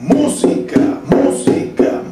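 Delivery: MÚ-si-ca, first syllable punched high; música chanted with a strong first syllable; stress on MÚ. Shown as a demonstration. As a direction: hit the MÚ of música on the beat. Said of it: "El acento está en la mu".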